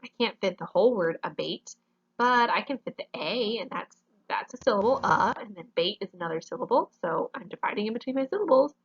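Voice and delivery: lightly voiced student working it out; a touch of a student justifying their choice; imagined student reasoning. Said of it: "you cannot say".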